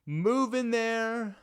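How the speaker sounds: slow, drawn-out exaggerated contempt; mock disdain for Arkansas, drawn out. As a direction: sneer at the state, slow and overdone. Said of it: "I'm kidding".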